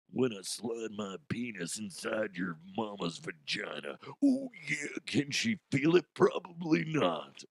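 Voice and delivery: a mocking Macho Man boast; lightly voiced wrestler bravado; Macho Man impression.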